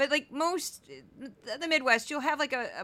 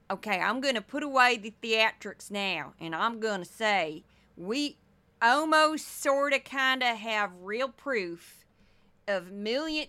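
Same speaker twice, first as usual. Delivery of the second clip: mock Southern accent. Host mocking the congresswoman's hedging in a Southern accent. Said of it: "I'm doing an accent that I grew up around".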